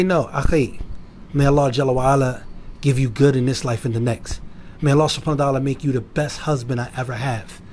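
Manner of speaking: gentle, respectful correction, acted; calm and tactful, as a model reply. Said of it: "with some passion and respect".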